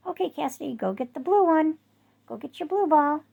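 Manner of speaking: eager fetch command; talking to the dog. Retold or imitated.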